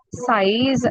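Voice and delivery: "Size" said with a slight French accent; French seize. Shown as a demonstration. Teacher modelling seize with a slight accent. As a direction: say "Size" like seize, not the English word. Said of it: "slight accent".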